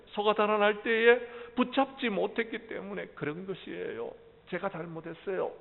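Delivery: a mild touch of tearful apology; daughter-in-law mildly tearful as she takes the blame. Acted. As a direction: apologize close to tears, but understated. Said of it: "며느리가 울먹울먹하면서 말합니다".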